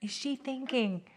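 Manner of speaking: soft whisper, voicing a grumpy cat; whispering the cat's thoughts. Owner whispering what her cat thinks, in a hushed whisper. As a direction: breathe it like the cat's inner voice. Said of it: "we're like".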